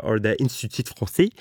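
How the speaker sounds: French words in Québécois accent; Québécois French pronunciation; Quebec French accent. Real, not acted. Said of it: "I love your Québécois accent".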